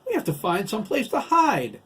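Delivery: high, loud panicked insistence; alarmed, high-pitched shout; frantic urging. A narrator's reading. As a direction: urge your son to take cover. Mother urging son to hide.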